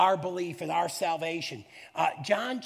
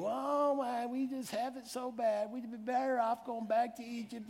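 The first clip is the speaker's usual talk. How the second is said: mock whiny complaining, softer; whiny Israelites; 5 semitones higher, 5 dB quieter than usual. Preacher mocking the grumbling Israelites in the desert, whiny voice. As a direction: whine like a spoiled complainer. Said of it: "biggest bunch of whiners and complainers".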